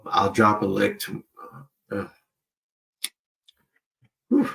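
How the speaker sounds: talking around cotton in mouth; words muffled by cotton wads. Real, not acted. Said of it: "it's hard to talk with this cotton".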